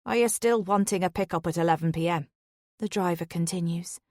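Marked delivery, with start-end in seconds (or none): 0.0-2.3 Irish lilt. Acted. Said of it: "His Irish lilt".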